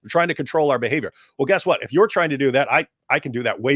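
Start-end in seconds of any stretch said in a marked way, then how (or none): 0.0-1.1 mock inner voice. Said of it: "you want it to be in our heads".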